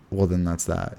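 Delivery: retold resignation. Retells his resigned reply.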